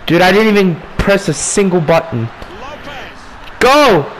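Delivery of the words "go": furious shout. Real, not acted. Yelling at game players.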